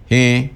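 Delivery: "G" said as hẽ, e through the nose; nasal vowel. Shown as a demonstration. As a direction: affirmative "G" as nasal hẽ. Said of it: "Con la primera es nasal".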